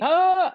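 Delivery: loud high scream; retold scream. Mother in labor screaming while husband calls hospital, high loud cry. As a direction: scream out mid-contraction.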